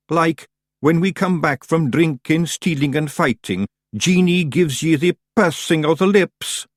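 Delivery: high, slow, loud Scots dread; slow fearful Scots pictsie. Acted. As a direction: spin it like a ghost story. Daft Woolly's dread.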